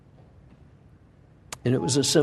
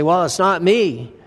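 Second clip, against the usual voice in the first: mock denial; 4 semitones higher, 4 dB louder than usual. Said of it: "as if we can deny our sin and say".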